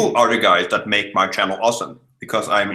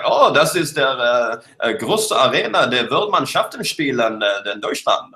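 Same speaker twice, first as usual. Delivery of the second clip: fake German; 2 semitones higher than usual. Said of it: "in fake German".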